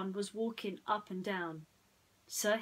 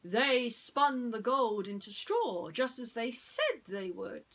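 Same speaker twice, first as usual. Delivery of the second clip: smug prince; 4 semitones higher, 5 dB louder than usual. Acted. Prince John voiced.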